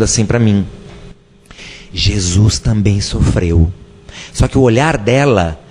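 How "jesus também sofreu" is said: gentle and sweet. Retold or imitated. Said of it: "de uma forma doce".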